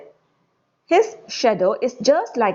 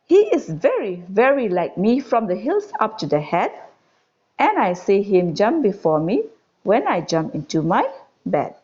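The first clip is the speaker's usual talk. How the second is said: put-on measured, lilting verse reading to children; poem recitation. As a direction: recite it line by line with lifted key words. Recites the second stanza.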